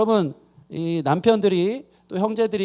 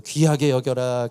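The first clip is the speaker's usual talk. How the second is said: tender command; 7 semitones lower, slower than usual. Shown as a demonstration. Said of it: "한번 좀 얘기 좀 해주세요".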